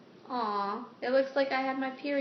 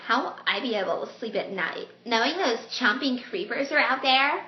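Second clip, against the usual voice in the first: lightly voiced script character; lightly acted worried question, lifting toward the end; Callan; 3 dB louder than usual. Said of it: "I'm gonna do the voices".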